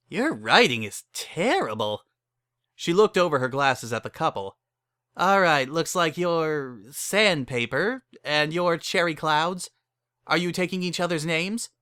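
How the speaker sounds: brassy saleswoman. Acted. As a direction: rattle off the package menu like a hustler.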